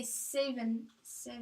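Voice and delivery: SEVEN said slowly with a shifted first vowel; local pronunciation. Shown as a demonstration. Family member showing local speech, SEVEN with shifted vowel. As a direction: show how locals say SEVEN. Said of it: "I say things differently".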